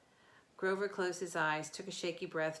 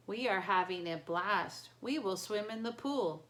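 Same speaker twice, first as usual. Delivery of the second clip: monotone trance voice; 5 dB louder than usual. Acted. Entranced kids, blank.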